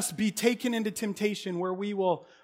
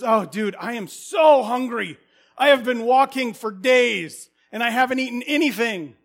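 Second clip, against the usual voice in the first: hungry friend; 6 dB louder than usual. Acted. Friend arrives hungry at midnight.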